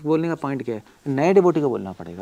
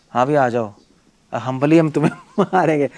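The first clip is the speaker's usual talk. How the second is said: louder, sarcastic politeness breaking into a laugh; mock humble threat; 5 dB louder than usual. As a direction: taunt the enemy with fake humility. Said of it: "humility से मारेंगे उसको". (व्यंग्य भरी नकली विनम्रता)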